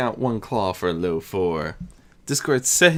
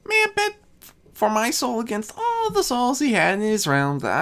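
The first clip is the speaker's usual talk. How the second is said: Discord as a boastful youth; 9 semitones higher than usual. Acted. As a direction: brag it like a mischievous young god. Discord's voice, held.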